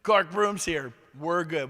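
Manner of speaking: loud cheerful whoop on Woo, then easy confidence; walking into the room like you own it, excited; excited entrance. Pretend. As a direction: burst in hyped up. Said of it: "You enter the room like".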